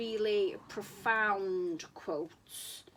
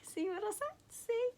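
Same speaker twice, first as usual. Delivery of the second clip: delighted; 12 semitones higher, 3 dB quieter than usual. Real, not acted. Pointing at mole with cake.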